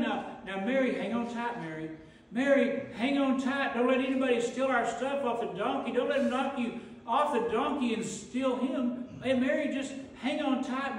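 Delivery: anxious Joseph hurrying Mary through the crowd. Acted. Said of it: "Here's Joseph".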